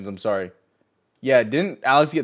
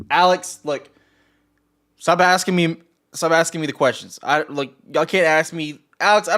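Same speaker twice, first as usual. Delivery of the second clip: exasperated outburst; 5 semitones higher than usual. Real, not acted. Streamer scolds chat member Alex.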